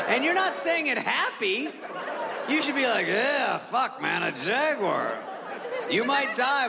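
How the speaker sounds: high-pitched, exasperated alarm; worked-up protest. Retold or imitated. Telling him he should sound alarmed, worked up. Acted rant at overly calm man.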